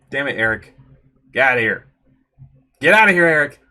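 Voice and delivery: loud shouted order; angry dismissal. Acted. Chasing Eric off the stranger, shouting angrily. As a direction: shout him away.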